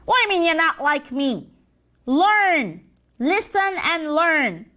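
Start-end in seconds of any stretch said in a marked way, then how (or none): 2.1-4.7 condescending command. Acted. Senior devil scolds the junior.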